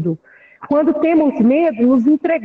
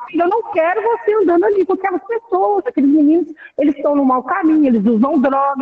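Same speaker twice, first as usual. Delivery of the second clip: a touch of a stern parent, starting higher and fast; firm parent warning; 4 semitones higher, faster than usual. Pretend. Parent warning son about drug-using friends, mildly stern. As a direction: warn your son off bad company, half acted.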